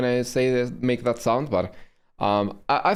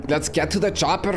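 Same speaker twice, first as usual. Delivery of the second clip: Schwarzenegger impression; 3 semitones higher than usual. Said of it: "thick like Schwarzenegger in Terminator".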